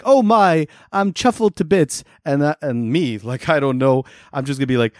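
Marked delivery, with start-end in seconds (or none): 0.0-2.0 high-pitched mock royal delight; Her Majesty. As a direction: play a delighted monarch, hammed-up. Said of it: "Her Majesty will be like".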